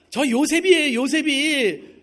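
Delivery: loud, high shout into the phone; shouting his name. Retold or imitated. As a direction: shout who you are into the phone. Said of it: "소리 질렀어요".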